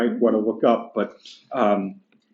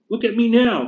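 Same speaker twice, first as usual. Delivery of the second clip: higher, indignant working-class ghost; gruff big ghost; 10 semitones higher than usual. Acted. Teacher reading the ghost complaining to the bright spirit, indignant. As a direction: bluster like an aggrieved ghost.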